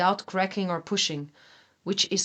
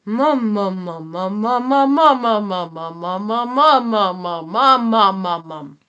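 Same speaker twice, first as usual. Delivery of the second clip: louder, pushed "mum" sung on a scale; added intensity; 7 dB louder, slower than usual. Shown as a demonstration. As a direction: lean into "mum" with more power. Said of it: "Then gradually add intensity, like this".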